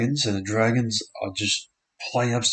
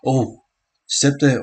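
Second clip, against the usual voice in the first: excited; 4 semitones higher, 5 dB louder than usual. Real, not acted. Player steps through the defence.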